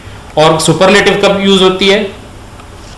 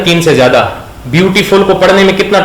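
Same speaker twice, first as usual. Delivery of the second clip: usual speaking voice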